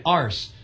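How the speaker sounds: arse said long with open ah; British arse. Shown as a demonstration. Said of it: "Try pronouncing it with a British accent".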